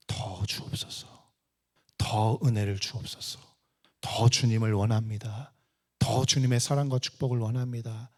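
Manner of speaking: low, hushed opening supplication; low-pitched entreaty to God; earnest prayer. Real, not acted. Leads an earnest prayer of longing.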